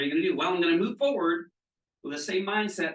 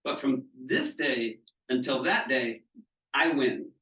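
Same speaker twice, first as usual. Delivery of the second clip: kindly. Retold or imitated. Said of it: "very kindly said to her this".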